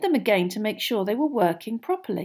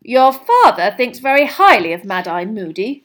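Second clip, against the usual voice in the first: stern Mrs Weasley; 11 dB louder than usual. A narrator's reading. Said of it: "Weasley sternly".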